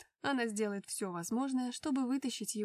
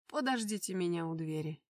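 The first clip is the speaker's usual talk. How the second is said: a lightly voiced lower, curt order; command; 4 semitones lower than usual. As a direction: order the guards to wait. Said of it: "приказал он охране". (властный приказ охране, чуть ниже)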